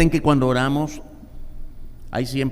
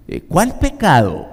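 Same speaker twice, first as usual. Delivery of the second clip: higher, louder puzzled question; the Lord answering; 6 semitones higher, 4 dB louder than usual. Acted. The Lord answering the believer, puzzled. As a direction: ask as if truly forgotten. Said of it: "Y el Señor te dice".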